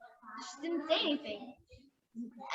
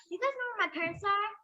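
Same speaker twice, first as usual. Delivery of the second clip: higher, quick questioning voice; retold innocent question; 8 semitones higher, much faster than usual. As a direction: ask it lightly, pitched up and quick. Child's question retold from own story.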